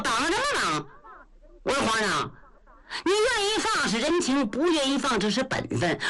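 嗓门偏高, 快嘴憨直的糊涂老将, 理直气壮; 像个大大咧咧的老粗跟皇上讲歪理; 焦廷贵. Acted. 焦廷贵不服被绑. (高嗓门、语速快的憨直老将)

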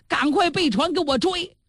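high, pressing command to chase; a high, urgent order. Acted. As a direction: hurry them to the boats. Prince orders pursuit.

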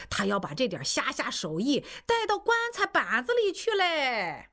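put-on high, needling old man's voice; an old man ribbing the teacher, pitched high; the coffin-shop old man. A narrator's reading. Old man teasing Gou, high and needling. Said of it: "看哭的老汉就在一边说".

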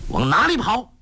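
high loud call; shouting after him. Acted. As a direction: yell at the fleeing foe. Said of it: "郭靖叫道".

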